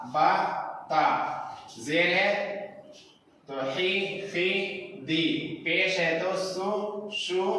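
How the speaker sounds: bare syllables like "बा" and "शु", nothing spelled; direct sound. Shown as a demonstration. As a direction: say each sound straight off. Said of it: "हमको automatic बोलना चाहिए". (सीधा sound, अपने आप)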